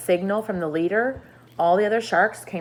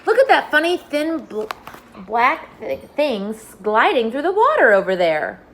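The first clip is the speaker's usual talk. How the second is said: excited; 5 semitones higher, 5 dB louder than usual. Acted. Centipede points at strange shapes.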